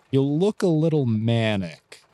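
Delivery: slow, careful observation; mildly concerned. Acted. Clyde tells Snow how Snow looks, mildly concerned. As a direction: break it to them slowly, with mild concern. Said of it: "Both of them look at you mildly concerned".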